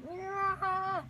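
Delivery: high squealing Nyah cry; imitating a startled shriek; mock shriek. Dream man tucked into a ball, mock high shriek.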